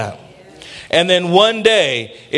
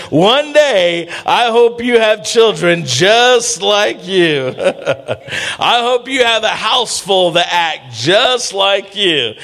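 mother's warning; 4 semitones higher, slower than usual. Retold or imitated.

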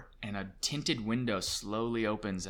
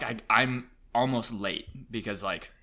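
normal talking voice

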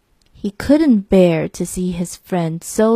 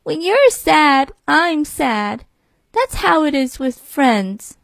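lamb voice; 5 semitones higher than usual. Acted. Lamb's voice in story.

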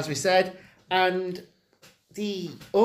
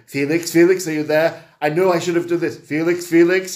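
imitating pleading call; 6 dB louder than usual. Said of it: "he keeps saying".

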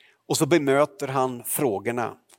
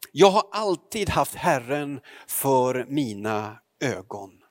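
scripture reading. Acted. Preacher reads Acts chapter two to the congregation, solemnly. Reads Bible text aloud.

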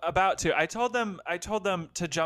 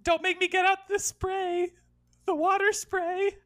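scolding; 11 semitones higher, 4 dB louder than usual. Pretend. Scolding wolf like a pet.

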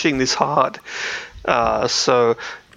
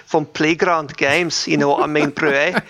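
bad Scottish accent. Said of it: "I'm so awful at doing a Scottish accent".

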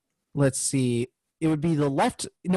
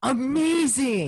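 sarcastic; 7 semitones higher, slower than usual. Acted. Sarcastic praise of magic use.

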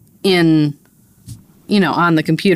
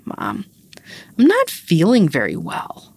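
slow, lightly voiced sick little kid; imitating sick toddler; slower than usual. Mother retelling her sick toddler's announcement, lightly imitated. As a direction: give a hint of a poorly child, drawn out. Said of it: "she goes".

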